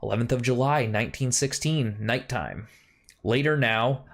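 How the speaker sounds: solemn storytelling read; diary narration. Acted. Reads diary entry in game.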